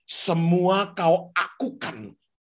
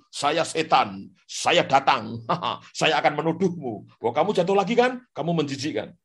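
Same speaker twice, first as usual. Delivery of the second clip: mock cartoon devil; 2 semitones lower than usual. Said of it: "Dia bilang".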